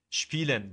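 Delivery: شپیلن with initial s said as sh; sh sound. Shown as a demonstration. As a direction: begin شپیلن with a clear ش before the p.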